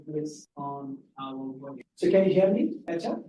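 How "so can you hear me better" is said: louder, higher voice to be heard; speaking up. Real, not acted. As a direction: raise your voice to check they can hear. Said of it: "if you can speak up".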